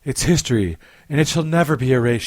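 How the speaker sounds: dramatic bodice-ripper reading; romance novel narrator. Pretend. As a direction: read like a steamy paperback. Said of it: "my romance novel voice".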